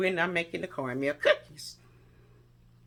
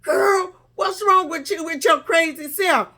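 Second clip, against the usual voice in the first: high, loud, laughing scolding; mom voiced laughing; 10 semitones higher, 5 dB louder than usual. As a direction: scold her through laughter.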